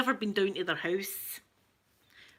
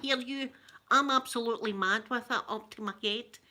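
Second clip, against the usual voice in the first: lightly voiced Scottish Ned; wee Ned talk; 2 semitones higher than usual. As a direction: imitate local street talk, lightly. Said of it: "the wee Neds talk round about here".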